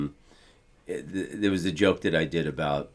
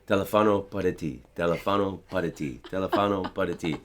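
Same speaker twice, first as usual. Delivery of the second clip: repeating to himself. Retold or imitated. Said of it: "I was repeating to myself over and over".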